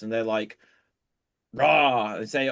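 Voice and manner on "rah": loud mock growl; growling noise. Psychiatrists in a joke growling to earn a drink, loud mock growl. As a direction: growl it out like a pretend lion. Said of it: "make a growling noise".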